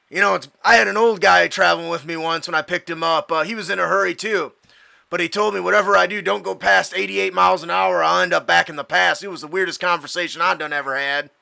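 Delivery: cab driver. Acted. Plays the cab driver telling anecdote.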